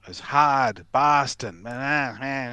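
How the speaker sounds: light mock Boston accent; a lightly done Kennedy-style Boston drawl. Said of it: "like, the Kennedys".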